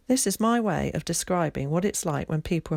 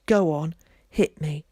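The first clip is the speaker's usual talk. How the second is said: hissed; 3 dB louder than usual. A narrator's reading. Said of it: "she hissed".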